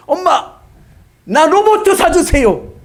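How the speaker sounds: put-on high, pleading child voice; little boy begging. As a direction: beg mom like a small kid. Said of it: "아들이 엄마에게 얘기합니다".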